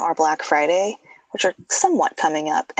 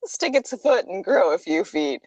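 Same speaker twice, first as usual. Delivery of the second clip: laughing. Real, not acted. Repeating co-host's line, amused.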